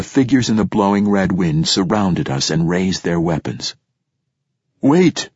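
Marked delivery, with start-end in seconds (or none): 4.8-5.3 high, urgent narrated call; crying out. A narrator's reading. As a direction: call out to halt them. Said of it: "cried a voice familiar to me".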